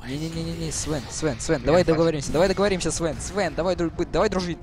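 being chased. Real, not acted. Chased in game, begging enemy.

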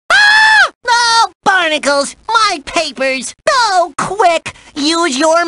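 high, frantic cartoon cries; yelp, then cry out in alarm; panicked alarm. Host sees the question papers fly off, panicked alarm.

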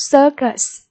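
"Circus" stressed on CIR; stress on first syllable. Shown as a demonstration. Teacher modelling vocabulary for pupils, "Circus" stressed up front. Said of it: "nhấn âm tiết số một".

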